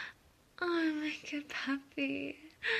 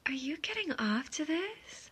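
higher-pitched teasing question; 4 semitones higher than usual. Acted. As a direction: ask it with a raised, probing lilt.

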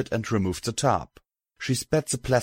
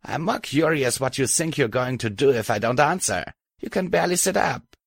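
smirking; 5 semitones higher than usual. Acted. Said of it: "she said with a little smirk".

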